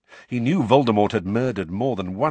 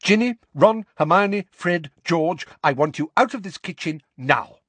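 high, upset orders; distraught mother sending children out; voice cracking; 10 semitones higher, 6 dB louder than usual. A narrator's reading. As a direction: rap out the names in a strained high voice. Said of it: "her voice cracking".

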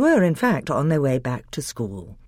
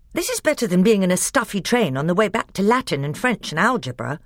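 put-on higher, louder gleeful boy; 6 semitones higher, 3 dB louder than usual. Edmund gloats to the others about escaping school.

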